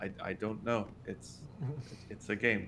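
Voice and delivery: soft, low-volume, trailing off softly. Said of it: "because they're both very soft-spoken".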